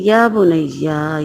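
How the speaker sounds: drawn out very slowly and tenderly, یا بنیا lingering; fond father calling his little son; affectionate. Shown as a demonstration. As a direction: call the son lovingly, stretching یا بنیا. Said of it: "لاڈ پیار سے".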